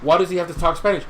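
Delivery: imitating someone offended by a Chihuahua; mock offended person. Mocking a touchy viewer, whiny. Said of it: "be like".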